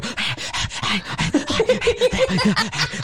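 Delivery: high-pitched exaggerated gasping; mock exhausted panting. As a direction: imitate someone wheezing through a workout. Imitates wife struggling on bike.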